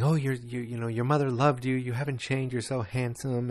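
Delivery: lightly mimicked fawning older women. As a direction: fuss over him admiringly. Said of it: "like, fawning over him".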